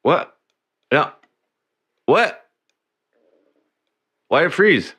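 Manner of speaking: startled what. Real, not acted. Camera freezes.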